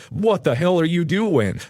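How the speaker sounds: slow, emphatic retold yell; a mild mock yell, words drawn out. Angry stranger in a pickup confronts the delivery driver, mildly mock-yelling. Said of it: "yells at me".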